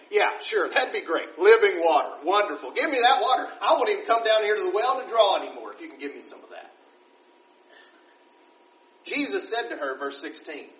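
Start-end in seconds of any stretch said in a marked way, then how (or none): 0.1-6.7 mock-enthusiastic, rushing the last line; sarcastic. Samaritan woman brushing off Jesus's offer, sarcastic. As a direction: roll your eyes while you say it. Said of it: "she's still being sarcastic here".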